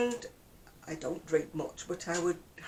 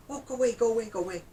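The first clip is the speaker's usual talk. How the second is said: exasperated; 5 semitones higher, 6 dB louder, much faster than usual. Retold or imitated.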